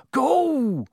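high, fierce one-word command. A narrator's reading. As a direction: order them away fiercely. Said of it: "said Hagrid fiercely".

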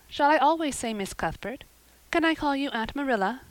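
put-on high, hopeful child's voice; eager orphan girl. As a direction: ask eagerly, pitched high.

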